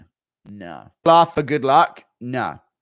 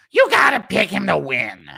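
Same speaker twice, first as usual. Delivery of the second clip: put-on louder, higher Greek-accented voice; Giannis the Greek; 5 semitones higher, 6 dB louder than usual. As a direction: push it like a Greek fan. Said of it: "Giannis the Greek impression".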